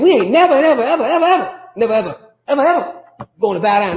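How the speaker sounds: hammed-up stubborn never ever; defiant mock refusal. Preacher imitating a disrespectful refusal to the king, mock defiant. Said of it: "They're not going saying".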